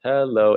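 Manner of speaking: HELLO held high and stretched; different-feeling hello. Shown as a demonstration. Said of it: "it has a different feeling".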